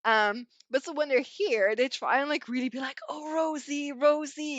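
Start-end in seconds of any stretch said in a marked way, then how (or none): 3.1-4.6 overeager, a bit too bright; straining to sound natural with the name; forced eager greeting. Retold or imitated. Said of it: "it doesn't come natural".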